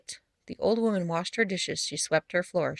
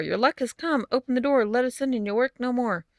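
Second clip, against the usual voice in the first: fairy voice; 5 semitones higher than usual. Acted. Fairies banging on the door.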